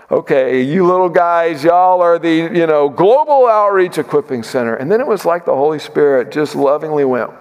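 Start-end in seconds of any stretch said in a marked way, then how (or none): 0.1-4.7 retold patronizing disbelief, swelling on the grand name; mock being impressed by a tiny outfit; condescending skepticism. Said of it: "I'm ashamed to admit it".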